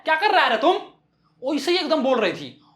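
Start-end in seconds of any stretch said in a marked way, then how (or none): 0.0-0.8 mock shout at a child. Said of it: "चिल्लाकर ही बोलते हैं".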